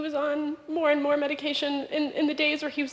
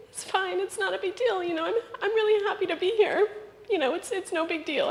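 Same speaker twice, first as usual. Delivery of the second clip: breezy reassurance, slightly higher, with a light laugh; brushing it off; 5 semitones higher than usual. Retold or imitated. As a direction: wave it away as nothing. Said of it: "I kept saying".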